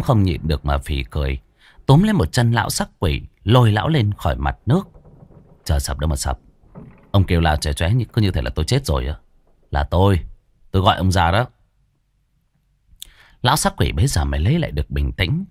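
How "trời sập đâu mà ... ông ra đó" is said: lightly voiced, lower, half-laughing reproach; Đen's voice. Đen chiding the panicked ghost, a hint of exasperation. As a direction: tease him for overreacting.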